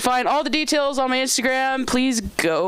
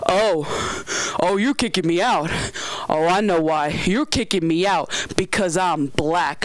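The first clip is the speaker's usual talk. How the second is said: indignant customer, slightly lowered voice; mock outrage; 3 semitones lower, slower than usual. Angry customer being kicked out of the store, mock outrage. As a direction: imitate an outraged customer, drawing out the accusation. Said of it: "she's yelling, she's screaming".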